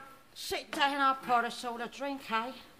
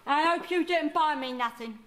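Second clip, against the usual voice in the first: a cantankerous old London nan, put-on voice; put-on Cockney nan. Nan scolding her grandson, in a put-on old Cockney voice. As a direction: play the grumpy nan who wants no presents.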